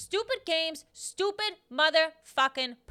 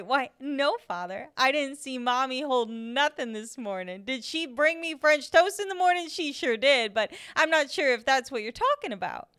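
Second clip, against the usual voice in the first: sweetly innocent; 4 dB louder than usual. Acted. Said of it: "smiling away".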